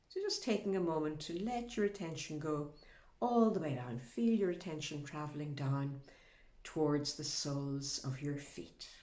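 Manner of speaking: unhurried body-scan guidance with long pauses; guided meditation. Acted. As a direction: gently lead attention down to the feet, pausing between phrases.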